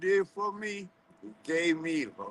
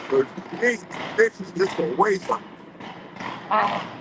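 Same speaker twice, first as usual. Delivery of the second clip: forceful; 3 semitones higher than usual. Real, not acted. Defending the host forcefully.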